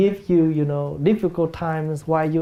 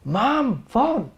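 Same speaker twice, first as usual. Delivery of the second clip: raised impatient call; 4 semitones higher than usual. Retold or imitated. Impatient child answering the caller, calling mom again with a sharp high phone. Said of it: "they increase their, their answer is".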